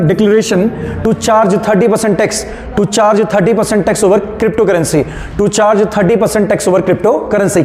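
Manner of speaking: very slow, word by word dictation; dictating. Shown as a demonstration. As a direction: stretch every word for note-takers. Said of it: "लिखना". (बहुत धीरे-धीरे बोलकर लिखवाना)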